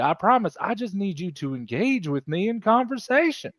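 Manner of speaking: lilting, hammed-up soothing; sing-song appeasement with swoops in pitch; mock placating. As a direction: coax an angry captain to calm down. Gage placates the angry captain.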